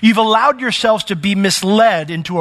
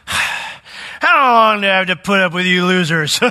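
slow, lightly voiced fed-up sigh of a line; mock exasperated Jesus; 2 semitones higher, slower than usual. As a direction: ham up an impatient teacher. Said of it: "that's kinda how it comes off".

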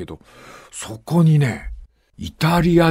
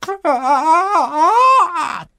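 long, slow high moaning ah; eerie moan; 13 semitones higher, 3 dB louder, slower than usual. Retold or imitated. Medium channeling the dead father, slow high mock moan. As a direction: draw out a ghostly wail, slowly.

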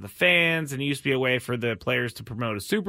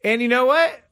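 high, louder put-on voice; Patrick Mahomes voice; 9 semitones higher, 4 dB louder than usual. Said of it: "I do the Patrick Mahomes voice".

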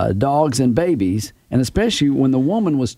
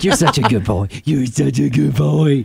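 put-on baby talk. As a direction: praise the dog sweetly. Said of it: "You're like".

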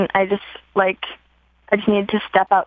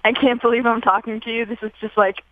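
rushed nervous introduction. Real, not acted. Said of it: "I'm very excited".

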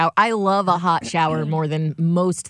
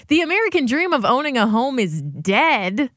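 higher-pitched, protesting echo of the headline; incredulous headline repeat; 4 semitones higher than usual. Retold or imitated. Objecting to how the headline puts it, incredulous. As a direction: quote it back in disbelief, rising at the end. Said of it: "why you gotta say it like that".

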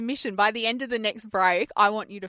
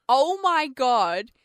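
slow, drawn-out excited oh my God; starstruck exclaim; 3 semitones higher, 3 dB louder, much slower than usual. Retold or imitated. Fan calling out to a celebrity, slow and excited. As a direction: spot a star and gush slowly. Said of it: "then I say out loud".

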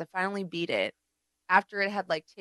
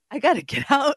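laughing; 6 semitones higher, 6 dB louder than usual. Retold or imitated. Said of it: "I was like".

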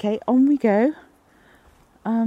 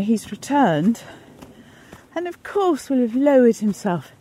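ordinary delivery

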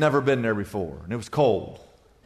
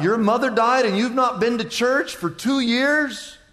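higher, indignant preaching tirade; mock-exasperated pastor lecturing her; imagined rebuke; 10 semitones higher than usual. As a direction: let the unspoken scolding pour out. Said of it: "but I thought".

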